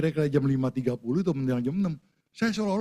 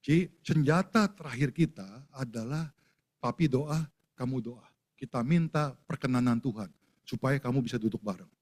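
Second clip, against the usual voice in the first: earnest encouragement; 3 semitones lower than usual. Retold or imitated. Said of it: "saya panggil anak saya yang besar".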